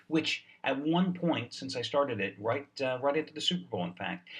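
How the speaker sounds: deadpan joke about a losing streak; sarcastic. Pretend. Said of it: "This is sarcasm".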